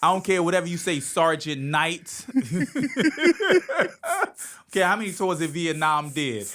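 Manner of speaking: high, loud demanding mom voice. Retold or imitated. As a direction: boss the sergeant around like a fierce mother. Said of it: "She was like".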